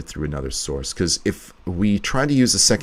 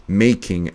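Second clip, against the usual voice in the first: "making" with the weight on "make", "ing" light; stress on make. Shown as a demonstration. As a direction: lean on the first syllable of "making". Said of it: "emphasis on the make and not the king".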